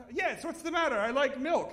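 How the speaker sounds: high, loud put-on old lady voice; high indignant granny voice; mother-in-law voice. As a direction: squeak it out like a stubborn old lady.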